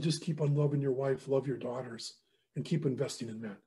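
soft, sinking in pitch and level; quietly steady a dying friend; retold gentle counsel. Mentor answers friend with brain tumor, gently.

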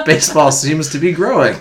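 lightly hammed-up old newsreel announcer; old-timey newsreel voice. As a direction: read it like a lightly put-on 1910s sportswriter. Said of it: "I was waiting for the old-timey voice".

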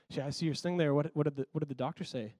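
low, soft, hesitant question; subdued, halting retold question; imitated reluctance. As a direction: ask it reluctantly, keeping it small. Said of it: "Kinda reluctantly".

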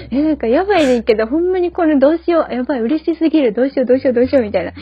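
fast, giddy Kansai self-talk; excited inner voice. Retold or imitated. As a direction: blurt out the joy in Kansai dialect. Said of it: "心の中で言ってる時あった". (心の声を早口で興奮気味に)

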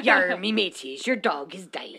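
cartoon pirate with bad news. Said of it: "do it in a pirate voice".

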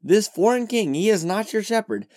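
a sudden loud whoa, then indignant objection; shocked protest. Retold or imitated. Israelites objecting to God calling Cyrus shepherd, loud shocked protest. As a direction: protest like an offended crowd. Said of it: "They would have been like".

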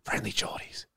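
soft unvoiced whisper of the name; hushed secretive whisper. Shown as a demonstration. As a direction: breathe the name as if it's forbidden. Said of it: "you even whisper his name".

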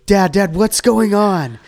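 put-on panicked kid. Shown as a demonstration. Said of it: "you say".

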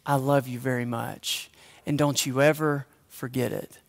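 soft, low, tender whisper into the ear; grandmother's whisper. Retold or imitated. Grandmother whispering love to grandson, soft and low. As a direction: whisper it as if to a child in your lap. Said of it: "she'd whisper into my ear".

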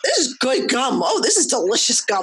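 lightly voiced little kid, delighted; a tasting three-year-old, amazed and earnest; imitating toddler. Mom imitating her toddler trying gum for the first time.

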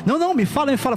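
eager pleading. Retold or imitated. Patient urging the pastor to reveal the word, eager. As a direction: beg to be told, lightly voiced. Patient begging the dentist to tell.

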